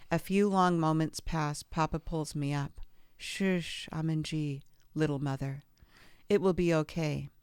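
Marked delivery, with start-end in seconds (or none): 3.2-7.3 tender comfort. Retold or imitated. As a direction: gently reassure her it will be okay. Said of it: "It is the sweetest thing I've ever heard".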